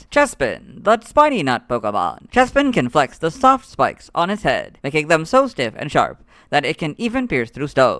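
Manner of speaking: lively, swooping, animated narrator voice. Reading a Pokemon's Pokedex entry aloud, in Ash Ketchum's Gen five Pokedex voice. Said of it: "in my impression of Ash Ketchum's Gen five Pokedex voice".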